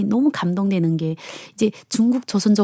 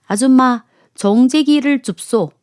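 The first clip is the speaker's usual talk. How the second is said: loud, higher, slow Jeju dialect call; 4 semitones higher, 4 dB louder, slower than usual. Acted. Jeju customer asking the waitress for a dish, calling out in dialect. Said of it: "특유한 제주 사투리에".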